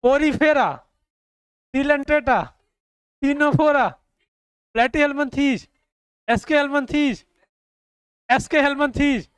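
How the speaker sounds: teacher reciting the phyla loudly for the class; loud recitation. Shown as a demonstration. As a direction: drill the list out loud like a roll call. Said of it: "सुनो ध्यान से".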